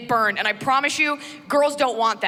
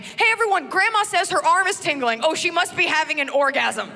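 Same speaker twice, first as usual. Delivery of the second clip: mock announcement; 5 semitones higher than usual.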